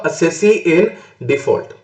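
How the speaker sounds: each word drawn out slowly; teacher spelling out the term for students, slow and deliberate; slow dictation. Shown as a demonstration. Teacher answering his own question, stretching the term very slowly. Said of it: "तो मैं क्या बन जाऊंगा?".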